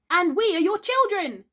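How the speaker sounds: cried out. Acted. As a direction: call it out together. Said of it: "cried the twins".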